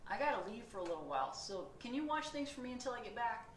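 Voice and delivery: cheery driver talking to the reader; bus driver voice. Acted. Bus driver asks readers to watch the bus, lightly voiced.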